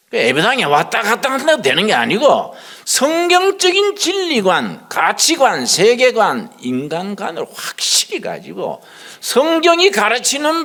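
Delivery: high, loud sermon build listing each word; hammering each -관 word like a revival preacher; fervent preaching. Acted. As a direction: drive the point home to the congregation. Preaching at full force.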